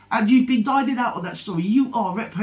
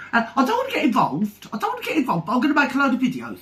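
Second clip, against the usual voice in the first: a light sneering imitation of someone backing off; mock innocent hand-washing, quickening at the end; mocking Savage's excuse; 4 semitones higher, faster than usual. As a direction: parrot her excuse with scorn, the last bit rushed. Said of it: "That's what Savage did".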